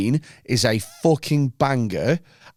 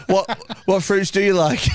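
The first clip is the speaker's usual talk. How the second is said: laughing mock quote; 6 semitones higher than usual. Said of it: "like the amount of time".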